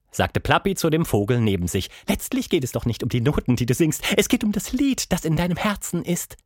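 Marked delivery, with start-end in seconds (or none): 2.1-6.4 monkey voice. Acted. Plappi continues.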